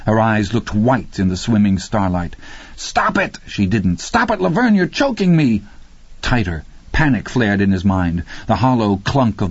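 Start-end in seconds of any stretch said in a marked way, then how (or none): 2.8-3.4 high, strained cry to stop; acted alarm, pitch leaping up; panicked command. A narrator's reading. Man being choked pleads. 4.0-5.6 high, urgent cry while choked; acted choking alarm, pitch way up; panicked protest. A narrator's reading. Man being choked.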